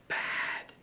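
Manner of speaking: unvoiced whisper of a friend. Friend whispers the meaning to Michael. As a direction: whisper it like a secret. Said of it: "whispered his friend".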